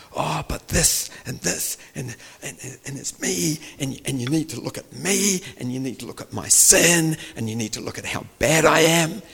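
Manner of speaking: high, pleading mock complaint; mock self-pitying protest. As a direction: act out a self-absorbed sinner's rising plea. Acts out self-absorbed sinner's protest.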